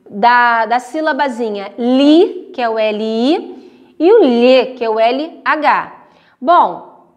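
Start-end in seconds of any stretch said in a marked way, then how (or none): 1.8-2.5 LI drawn out slowly and clearly; careful syllable demo. Shown as a demonstration. Teacher showing pupils the syllable li, careful demonstration. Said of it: "quando você pronuncia a sílabazinha li". 4.2-4.7 LHE punched loud, palatal lh; careful syllable demo. Shown as a demonstration. Teacher showing pupils the syllable lhe, emphatic demonstration. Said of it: "quando vocês pronunciam a sílaba lhe".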